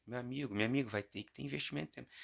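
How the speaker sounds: fast, pushy TV preacher. Pretend. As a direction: preach it like a televangelist bishop. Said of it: "Falei igual o bispo do Universal agora".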